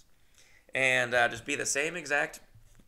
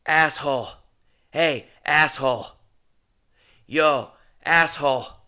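louder drawled Jesse Pinkman voice; 2 semitones higher, 9 dB louder, slower than usual. Retold or imitated. Showing off his Jesse Pinkman impression, louder drawl. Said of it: "That's my Jesse Pinkman".

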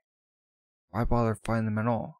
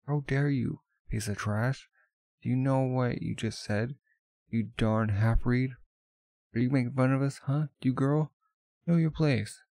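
furious gods; 4 semitones higher than usual. Acted. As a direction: bark down at the upstart girl.

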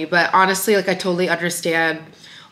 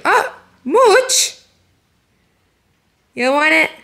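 calling out; 9 semitones higher, 3 dB louder, slower than usual. Real, not acted. Calling the baby.

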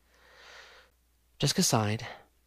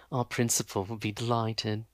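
lower, flat and dull; flat thug voice; 3 semitones lower, 4 dB quieter than usual. Acted. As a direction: say it without any feeling. Thug Vandemar speaks.

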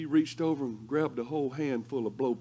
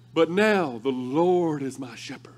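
hush, savour each word; whispered scripture; slower than usual. Pretend. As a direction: whisper it slowly, reverent.

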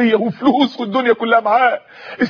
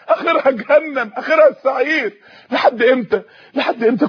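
impassioned preaching. Real, not acted. Preaching rebuke to youth.

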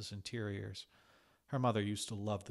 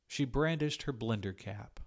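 ordinary delivery, nothing marked

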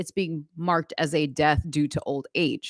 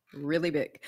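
Trump impression; 4 dB quieter, much slower than usual. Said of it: "your Trump impersonation".

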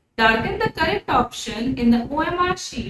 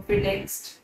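फिर next breathed out in a whisper; 6 semitones lower, 6 dB quieter than usual. Shown as a demonstration. Teacher miming window shopping for pupils, in a whisper. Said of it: "window shopping होता है कि".

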